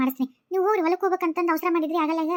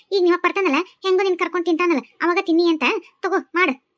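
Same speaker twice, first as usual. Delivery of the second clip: loud nagging rebuke; scolding; 3 dB louder than usual. Acted. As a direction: berate the lazy child. Stepmother scolding hungry boy. (ಜೋರಾಗಿ ಬೈಯುವುದು)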